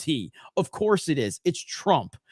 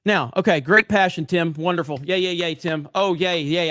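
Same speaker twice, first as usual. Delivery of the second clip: sarcastic cheer; 2 semitones higher, 4 dB louder than usual. Acted. Sarcastic cheer for Tim's rant.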